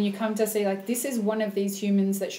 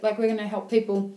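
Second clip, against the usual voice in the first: talking through a mouthful; words around a bite of blueberries; mouth full. Real, not acted. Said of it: "Excuse me for talking with my mouth full".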